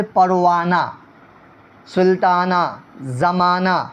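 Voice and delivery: پروانہ، سلطانہ، زمانہ each ending in a plain long aa; silent final h. Shown as a demonstration. Teacher gives examples of the unheard ha, silent final h. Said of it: "پڑھنے میں سمجھ میں نہ آتا ہو".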